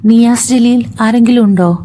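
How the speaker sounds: lightly voiced nurse's announcement; nurse calling out. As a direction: call out for a patient's relatives, mildly projected. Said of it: "nurse വിളിച്ചു പറഞ്ഞു". (നേഴ്സ് വിളിച്ചു ചോദിക്കുന്നതുപോലെ)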